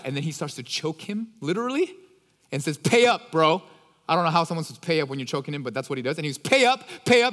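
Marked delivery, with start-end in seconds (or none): 2.8-3.6 louder, mock-angry "pay up"; angry demand. Servant choking his friend, mock-angry shout. 6.4-7.3 angry demand. Retold or imitated. Servant choking his friend.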